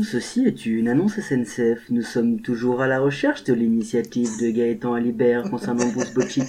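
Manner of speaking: soft, formal public-address voice; lightly hammed-up French rail announcement; station announcement. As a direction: read it like a train station announcer. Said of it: "un petit message à caractère informatif".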